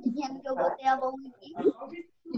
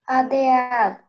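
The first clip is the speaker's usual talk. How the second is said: cadeado called out with force on the strong syllable; calling the word; 5 semitones lower, 4 dB louder, slower than usual. Shown as a demonstration. Pupil answering teacher's prompt, calling out. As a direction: call cadeado back, leaning on the A. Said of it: "você falou com mais força".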